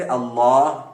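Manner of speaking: "اللہ" with a heavy, dark L; Quran-recitation "اللہ", full thick lam. Shown as a demonstration. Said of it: "لام کو کہاں کہاں موٹا پڑھنا".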